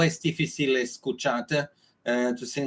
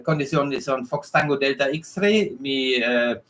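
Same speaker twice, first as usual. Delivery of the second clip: German accent Spanish. Real, not acted. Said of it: "mi español es, eh, español es muy mal".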